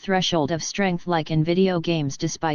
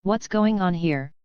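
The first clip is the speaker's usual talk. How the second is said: stern. Acted. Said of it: "asked sternly".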